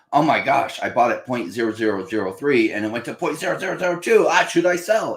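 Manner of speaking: high, anxious mock panic; panicky newbie. Newbie investor panicking about a price drop, high mock worry. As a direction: play a new buyer fretting over a small dip.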